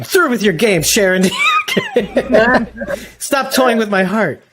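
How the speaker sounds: hammed-up soap opera heartbreak; melodramatic lover. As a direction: play the wounded lover, over the top. Okay, I'm kidding.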